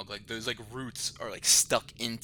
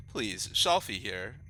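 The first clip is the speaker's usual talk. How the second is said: proper voice. Acted. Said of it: "Very proper".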